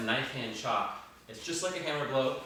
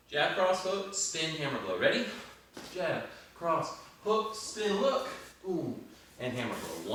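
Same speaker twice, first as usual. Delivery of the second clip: high, punchy combo calls; boxing coach calling combos; 4 semitones higher, slower than usual. Shown as a demonstration. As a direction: bark out each strike to the drill. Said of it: "instructor calling a drill combo".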